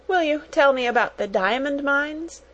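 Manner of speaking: put-on high, pleading child's question; whimper. A narrator's reading. Little girl begging for a story, whimpering. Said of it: "whimpered Lottie".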